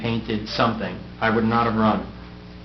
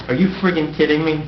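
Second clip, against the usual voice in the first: put-on Staten Island accent; 4 semitones higher, 3 dB louder, faster than usual. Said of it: "in that Staten Island accent".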